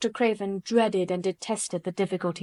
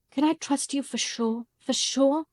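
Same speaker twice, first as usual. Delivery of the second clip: implored; 5 semitones higher, slower than usual. A narrator's reading. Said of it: "she implored".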